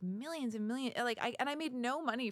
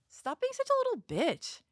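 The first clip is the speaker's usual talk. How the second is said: higher, teasing put-on voice; mock taunt; 9 semitones higher than usual. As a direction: needle him like a bratty girl.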